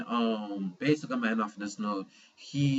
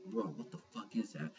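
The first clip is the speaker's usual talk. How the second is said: stunned hushed disbelief; 3 semitones lower, 11 dB quieter than usual. Retold or imitated. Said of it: "And I was like".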